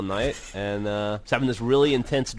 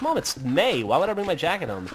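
higher-pitched mock protest to mom; protesting kid; 5 semitones higher than usual. Kid answering his nagging mother, protesting. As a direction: imitate a kid pushing back.

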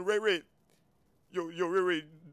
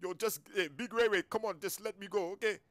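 quiet pleading; 11 dB quieter than usual. Acted.

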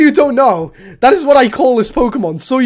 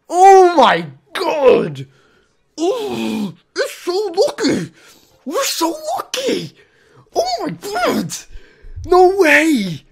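tearful joy; 6 semitones higher, slower than usual. Real, not acted. Overwhelmed, near tears.

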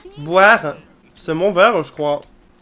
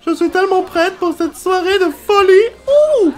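excited Sim; 12 semitones higher, 8 dB louder than usual. Acted. Sim announces to friends she is ready to dance, excited. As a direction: burst onto the dance floor.

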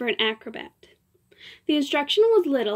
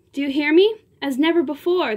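insistent; 3 semitones higher, 4 dB louder than usual. Acted. Diva insisting on her triumph.

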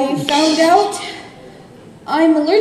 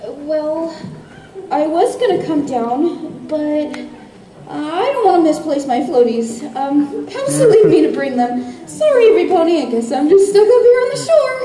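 nervous excuse. Acted. Mocha makes excuses in skit.

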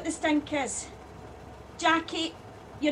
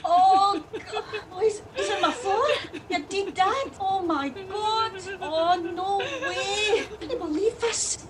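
horrified disgust; 4 semitones higher than usual. Acted. Driver finds dead dad's ashes on her floor, horrified.

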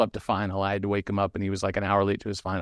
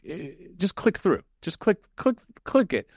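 exasperated mock instruction; 7 semitones higher than usual. Retold telling owner to read.

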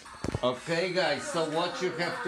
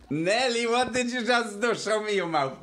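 startled parental questioning; 8 semitones higher, 3 dB louder than usual. Real, not acted. Parent catches child eating icing.

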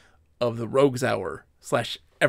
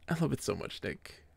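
tender; 10 dB quieter than usual. Real, not acted.

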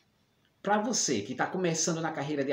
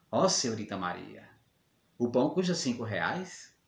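lightly mimicked sweet-talking baker, trailing into a hushed last word; mock-melting flirt, softening at the end; smitten; 6 semitones lower than usual. Jealous man mimics José flirting with Maria, mock-smitten. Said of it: "todo derretido".

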